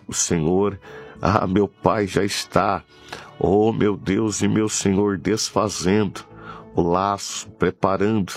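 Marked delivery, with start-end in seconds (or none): none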